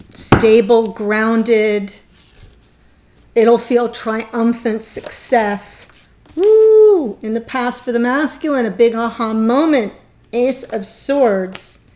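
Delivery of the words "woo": very high, loud joyful whoop; a thrilled woo of delight; excited whoop. Real, not acted. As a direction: cheer out loud at the good news. Excited by a reading.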